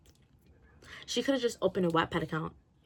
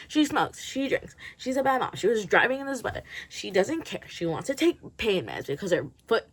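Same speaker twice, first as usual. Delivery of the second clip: higher, mock accusing list; mocking Polly; 3 semitones higher than usual. Reviewer mocks Polly's excuses, higher and mocking. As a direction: rattle off mock accusations, slightly hammed. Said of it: "her being like".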